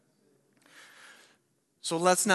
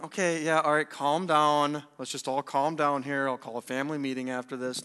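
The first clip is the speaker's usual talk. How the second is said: dismissive calming-down; 3 semitones lower than usual. Acted. Father putting off an angry son, offhand placating. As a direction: imitate a father brushing it off. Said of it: "He's not, he's not going".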